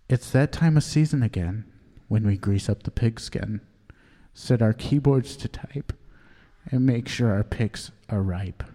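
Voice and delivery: measured poem reading with pauses between lines; earnest amateur poet at a reading; poem recital. Acted. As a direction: recite it line by line, pausing after each. Reads own poem aloud.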